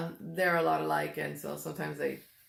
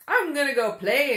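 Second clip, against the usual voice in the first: put-on eager kid; 8 semitones higher, 8 dB louder than usual. Mom retells daughter's playground dash.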